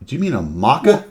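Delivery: puzzled barista. Retold or imitated. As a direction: query MACA with a puzzled rising lilt. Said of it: "gives me the R C A dog".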